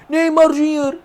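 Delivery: high, loud goal call; goal shout. Real, not acted. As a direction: scream the scorer's name. Gol de su equipo en partido.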